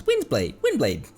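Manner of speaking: lightly voiced high battle call; Lumine. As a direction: toss out the attack name high and falling. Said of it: "does her battle voice lines".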